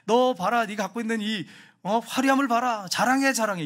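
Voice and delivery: lightly voiced, insistent tempter; Satan egging someone on. Satan pushing a person to show off, insistent goading. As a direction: urge them on to boast. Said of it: "이게 사탄이 하는 거예요".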